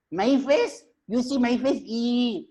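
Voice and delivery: high-pitched monkey voice; indignant monkey. Acted. Monkey told by the owl to see its face, indignant.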